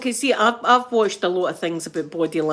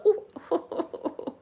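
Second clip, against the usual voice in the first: pained ooh; 9 semitones higher, 6 dB quieter than usual. Retold or imitated. Retold reaction to painful knock.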